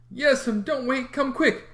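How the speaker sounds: put-on high, loud, panicked boy calling; frantic child's call; urgent call. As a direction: summon Aunt Polly in alarm. Sid running for aunt.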